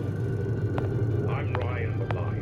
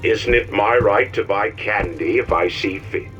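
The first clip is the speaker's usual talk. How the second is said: rising outrage; 7 semitones lower, 3 dB quieter than usual. Acted. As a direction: build into an angry rant. Propaganda cartoon voices build up.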